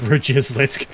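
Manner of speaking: put-on Eastern European accent. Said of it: "my Eastern European accent".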